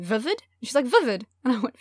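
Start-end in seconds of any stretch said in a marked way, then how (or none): 0.0-0.4 "Vivid" echoed with Kiwi vowels, rising; puzzled Kiwi echo. Retold or imitated. Puzzled flatmate repeating the word, questioning Kiwi accent. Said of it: "I kept on repeating". 0.9-1.2 "Vivid" with squashed Kiwi vowels, falling; New Zealand accent. Retold or imitated. Roommate confirming the word to a puzzled friend, New Zealand accent. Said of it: "the vowels were all wrong".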